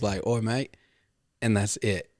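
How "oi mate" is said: brief Aussie-style "oi, mate"; attempted Australian accent. Shown as a demonstration. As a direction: try a passable Australian greeting. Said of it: "I can kind of get away with".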